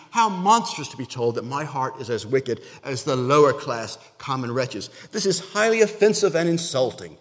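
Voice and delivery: loud, haughty aristocrat, lightly voiced; mock snooty duchess. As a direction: play an offended upper-class lady, hammed up. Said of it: "This is the Duchess, very upper-class lady".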